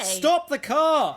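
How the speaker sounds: loud, slow, frightened cry; panicked shout. Acted. Daksha begging Danu to stop the cart, panicked. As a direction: beg in terror to stop.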